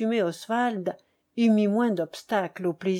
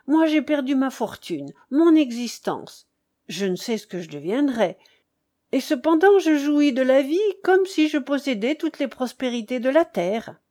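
animated, louder and higher boasting; lively light-hearted count; 4 semitones higher, 4 dB louder than usual. Acted. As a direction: speak up with buoyant insistence. (comte plein d'entrain, voix animée)

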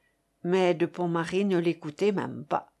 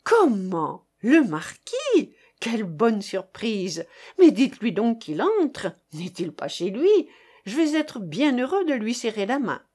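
joyful exclamation. Acted. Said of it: "s'écria, joyeux".

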